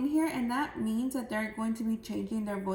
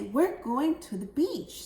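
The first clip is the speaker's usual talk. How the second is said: a bit brighter and livelier, pushed up at the start; excited; 3 semitones higher than usual. Shown as a demonstration. Teacher shows class excited reading of a line. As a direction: sell the beach trip with excitement. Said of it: "sounding more excited".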